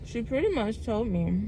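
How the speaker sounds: talking through a mouthful of food; mouth full. Real, not acted. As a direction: speak round a bite of food. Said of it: "I'm talking with my mouth full".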